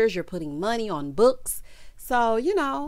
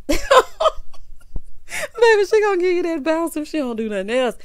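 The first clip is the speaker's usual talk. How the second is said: hyped up; 8 semitones higher, 5 dB louder, faster than usual. Real, not acted. Hyping Marlo's dance.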